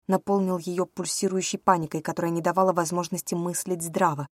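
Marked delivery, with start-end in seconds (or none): none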